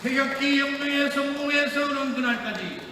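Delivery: building from firm to shouted rally cry; roaring rallying speech. Real, not acted.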